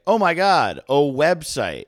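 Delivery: high, loud fake amazement; mock excited gasp. Comedian gushing to a fellow comic, mock amazed. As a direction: gush like a comedian who just discovered websites. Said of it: "where they're like".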